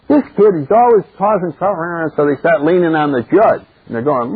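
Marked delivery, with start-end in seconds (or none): 0.1-2.1 complaining townspeople. Acted. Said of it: "the people are starting to go".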